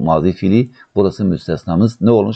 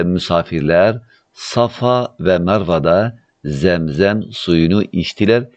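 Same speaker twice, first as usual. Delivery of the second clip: slow dictation; slower than usual. Shown as a demonstration. Teacher dictates the translation.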